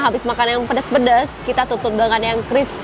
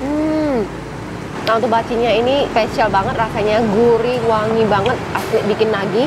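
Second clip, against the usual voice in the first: talking while eating; chewing between bites; mouth full chewing. Real, not acted. Seen 0: Takes spoonful at 0.1, chews while talking, eats throughout.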